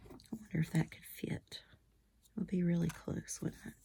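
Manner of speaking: soft, half-whispered musing; real quiet self-talk; thinking aloud. Real, not acted. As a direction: murmur it to yourself. Thinking aloud while crafting.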